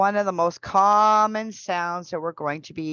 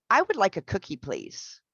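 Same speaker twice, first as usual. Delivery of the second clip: polite request. Shown as a demonstration. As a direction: ask nicely, a gentle polite request. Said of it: "Same thing, different tone".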